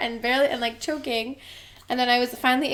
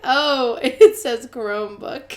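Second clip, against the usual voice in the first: loud, slow through laughter; bursting into laughter mid-line; laughing realisation; 7 dB louder, slower than usual. Real, not acted. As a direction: crack up on the reveal. Realising the misreading, cracking up.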